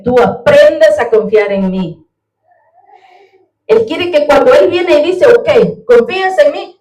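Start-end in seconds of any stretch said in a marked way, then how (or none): 5.3-6.8 higher, louder voice of God asking for trust; God asks the believer whether he trusts him, raised voice. Retold or imitated. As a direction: ask gently but loudly, as the Lord testing faith. God voiced in retold dialogue.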